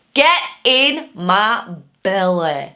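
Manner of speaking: put-on slow, punched-out Scottish accent. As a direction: bellow it in a hammed-up Glaswegian accent. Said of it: "I can do the accent".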